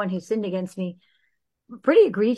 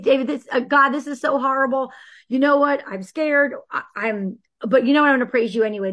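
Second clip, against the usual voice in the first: raised, louder anguished plea to God; voicing David's prayer; 4 semitones higher, 4 dB louder than usual. David crying out to God from the Psalms, urgent raised plea. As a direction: pour out David's fear and fury, then defiant praise. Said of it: "they all are David".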